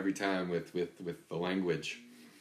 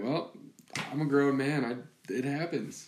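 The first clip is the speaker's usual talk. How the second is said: higher, louder mock-defensive protest; defensive dad; 7 semitones higher, 4 dB louder than usual. Dad caught by daughter, mock-defensive protest. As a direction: play the indignant grown man, half joking. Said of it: "And I was like".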